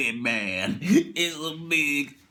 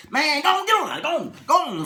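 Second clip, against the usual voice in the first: louder, higher brush-off; shooing off; 8 semitones higher, 5 dB louder than usual. Retold or imitated. Passenger shooing the pilot away. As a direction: wave him away with your voice. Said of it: "shooing the pilot away".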